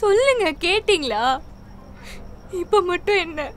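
bitter reproach. Acted. Wife bitterly confronts husband.

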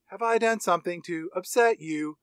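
lightly voiced calm robot, level and controlled; Megan even-keeled. Robot asking if she upset her maker, imitated even keel. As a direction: imitate a computer's untroubled politeness. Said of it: "Her tone goes real even keeled".

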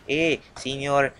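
playful mock Hispanic accent; Hispanic cartoon accent. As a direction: imitate a Hispanic cartoon character, drawn out. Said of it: "He's, like, Hispanic. He's like".

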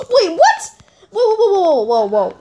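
gasp, high laughing whoas; laughing disbelief. Real, not acted. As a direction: shriek in amused shock. Shocked at unfair win.

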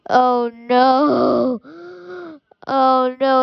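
a touch of fake sobbing; mock crying. Gamer regretting arresting his friend, mock sob.

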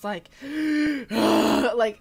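sharp gasping inhale, mock sob; imitated crying gasp. Imitating the girls' aggressive group crying, loud gasp. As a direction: gulp air like a wailing cult girl. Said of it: "like, aggressive crying".

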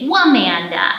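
Wamanda said with a W added before Amanda; W sound demo. Shown as a demonstration. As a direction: start Wamanda with a clear W sound. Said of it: "instead of Amanda, you would say".

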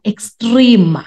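EXTREME said high with heavy emphasis; all syllables stressed. Shown as a demonstration. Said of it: "they are all emphasized and they are all stressed".

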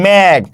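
মেঘ held, then shut on gh; closed final consonant. Shown as a demonstration. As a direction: sound out মেঘ to show its consonant ending. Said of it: "এই যে উচ্চারণটা করি মেঘ".

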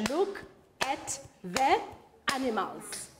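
each word slow and separate, clapped out. Shown as a demonstration. Teacher to class, clapping out each word slowly. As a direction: beat out every word to a clap. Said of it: "Let's, let's, let's clap again".

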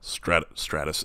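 slow, low truck-ad voice; slow, gravelly-intended ad read in a cowboy style; slow mock truck commercial voice; Sam Elliott impression. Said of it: "It sounds nothing like him".

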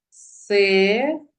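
"Се-ре-да" slowly in three separate syllables; split into syllables. Shown as a demonstration. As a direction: say "Се-ре-да" syllable by syllable with clear gaps. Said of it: "ділимо слова на склади".

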